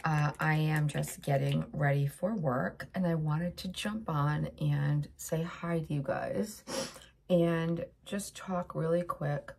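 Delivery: blocked nose, congested voice; stuffy nose. Real, not acted. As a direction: talk through a stuffy nose. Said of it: "Sorry, I'm a little stuffy".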